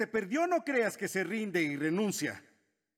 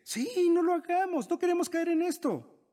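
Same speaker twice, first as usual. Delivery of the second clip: higher, louder mock eager agreement; the flesh talking; 11 semitones higher, 3 dB louder than usual. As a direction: ham up the lazy flesh cheering you out of it. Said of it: "tu carne dice".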